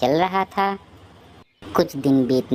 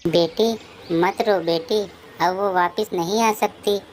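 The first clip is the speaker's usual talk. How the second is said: sorrowful, higher-pitched comforting; pained fatherly plea; consoling father; 5 semitones higher than usual. Acted. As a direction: console a crying daughter through your own grief. Father consoles his crying daughter.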